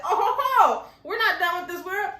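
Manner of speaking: chuckling with delight; gleeful laugh. Real, not acted. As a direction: laugh it out, thrilled. Delighted at the twist.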